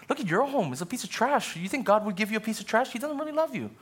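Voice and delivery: high, taunting tempter, rising into jeers; preacher voicing Satan's lies to the lonely, mocking. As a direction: sneer at their home and kids. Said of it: "Satan to begin speaking lies".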